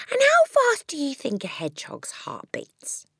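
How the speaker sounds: put-on high, excited little-girl question; eager child. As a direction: quiz the teacher with childlike eagerness. Voices eager child quizzing teacher.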